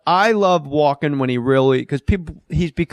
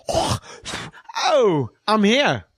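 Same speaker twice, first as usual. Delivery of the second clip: higher, light put-on voice of a crew guy; mock cheery crew guy; 6 semitones higher, much slower than usual. Crew guy announcing himself to the actor, higher put-on voice. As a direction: chirp it out like the guy holding the bounce card. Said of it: "a guy holding a bounce card goes".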